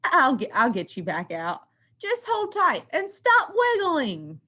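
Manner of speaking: lightly giggling reassurance; a hint of giggling while pulling a friend. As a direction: talk through a giggle. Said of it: "says Tiny while giggling".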